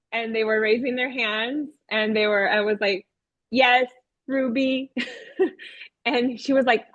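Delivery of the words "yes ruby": slow, stilted robot reply. Retold or imitated. Teacher as robot puppet calling on a raised hand, robotic voice. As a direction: call on a pupil like a robot. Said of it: "I talked like that".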